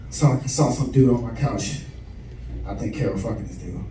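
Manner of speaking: low, soft, deflated confession; hushed hurt. Retold or imitated. Son confessing to his father that his wife is cheating, quiet and deflated. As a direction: tell him quietly, crushed. Confessing wife's affair to dad.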